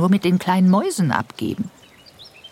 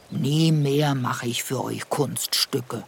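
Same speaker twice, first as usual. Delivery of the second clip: slow, softer hurt declaration; disappointed; 4 dB quieter, slower than usual. Acted. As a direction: let the disappointment weigh on it. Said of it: "rief er enttäuscht".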